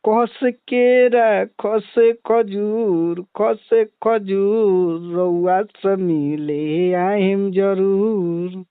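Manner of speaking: slow, drawn-out rhyming couplet; recited comic couplet, slow; dialogue delivery. Shown as a demonstration. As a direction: stretch each word of the rhyme. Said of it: "एक आध गो dialogue मार दी का?".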